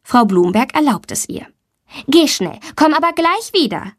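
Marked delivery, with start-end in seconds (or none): 2.1-3.9 friendly. A narrator's reading. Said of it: "sagt sie freundlich".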